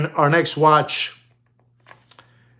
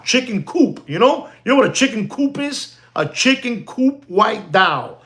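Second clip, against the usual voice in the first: excited; 8 semitones higher than usual. Real, not acted. Excited about dial name.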